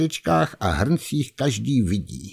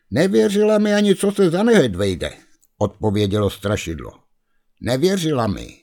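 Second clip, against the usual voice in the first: much higher, complaining; aggrieved ghost; 4 semitones higher than usual. Acted. The ghost complains to Kuba about Lízinka, high and aggrieved. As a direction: whine about not being believed.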